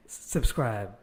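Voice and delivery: tucking-in, bedtime sign-off voice; soothing bedtime voice. Retold or imitated. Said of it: "makes it sound like you're, like, putting everyone, you know, to bed".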